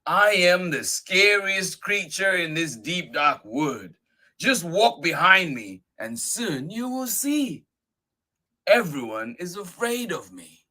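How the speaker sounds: high, emphatic mouse voice; boastful little mouse. Acted. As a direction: brag loudly in a small creature's high voice.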